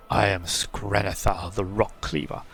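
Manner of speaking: put-on slow and solemn, like an old treant; talking tree. Voices the treant.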